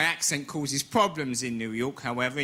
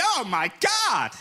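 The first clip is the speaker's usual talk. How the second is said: shocked gasp; 8 semitones higher, slower than usual. Retold or imitated. Woman shocked by crude line.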